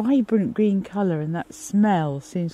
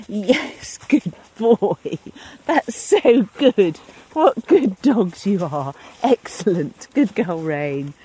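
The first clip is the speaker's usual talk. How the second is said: warm praise; 3 dB louder, slower than usual. Real, not acted. Praising dogs after game.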